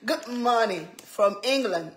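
light imitation of a British good morning, laughing; mock British accent. Laughing as she mimics the English viewer's greeting in a British accent. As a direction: playfully put on an English accent. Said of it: "You know they have that accent, right?".

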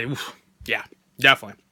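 lips sealed around straw; speaking mid-sip; talking with straw in mouth. Real, not acted. Seen 0: Straw enters lips at 0.8s, held through "definitely"; not at start.

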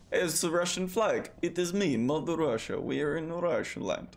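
lightly voiced grand Mother Russia, high and proud; a hint of a booming motherland figure. Gamer speaking as Mother Russia to the viewers, mock-grand.

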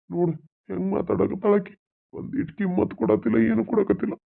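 high-pitched aggrieved complaint; plaintive complaint. Acted. In-law complains about her to son. (ಗೋಳಿಡುವ ದೂರು)

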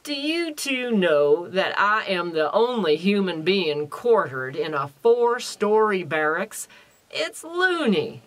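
loud, exasperated character voice; indignant Merle, story character. A narrator's reading. Reads a story character aloud.

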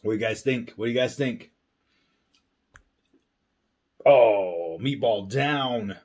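chewing while talking; talking through a bite of sandwich; mouth full. Real, not acted. Seen 1: Holds sub, bites at 1.7-2.0, mouth full while talking.

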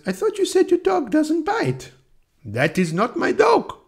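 put-on high-pitched comic French accent; hammed-up French accent, rising high. Acting out the inspector's dog routine, hammed-up French accent. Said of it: "says in his French accent".

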